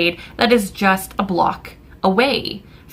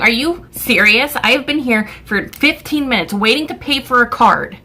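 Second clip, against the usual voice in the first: higher-pitched indignant complaint; livid, out loud; 4 semitones higher than usual. Retold or imitated. Customer waiting fifteen minutes to pay, livid out loud. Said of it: "I'm starting to say it out loud now".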